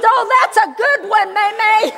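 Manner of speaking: a hint of a pleased six-year-old; lightly voiced grandson. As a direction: grandson to May May, lightly voiced boy, laughing.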